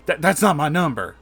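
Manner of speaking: lightly voiced panicky woman; flustered denial. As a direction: stammer it out, caught. Deborah denies the number.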